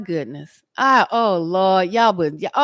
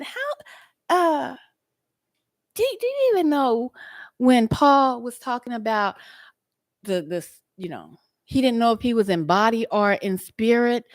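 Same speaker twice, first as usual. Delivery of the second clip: high retold question; 3 semitones higher than usual. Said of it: "I asked a question last night".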